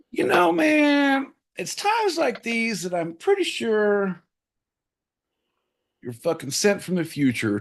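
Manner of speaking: mock-emotional tribute. Host pays John a gushing tribute, high and mock-emotional. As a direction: squeeze out gushing praise in a high voice.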